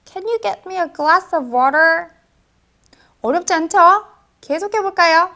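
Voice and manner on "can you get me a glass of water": slow second take. Shown as a demonstration. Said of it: "둘을 살짝 붙여주면요".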